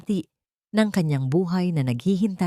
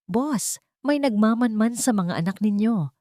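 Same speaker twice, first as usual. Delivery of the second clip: shaken warning; 4 semitones higher than usual. Acted. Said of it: "mga salitang nagpayanig sa buong mundo".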